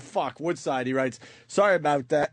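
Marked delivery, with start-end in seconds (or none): 1.5-2.3 put-on half-hearted Australian accent; attempted Australian accent. Reading what Woodside writes, in attempted Australian accent. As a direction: have a poor go at an Australian accent. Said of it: "I can't do the accent".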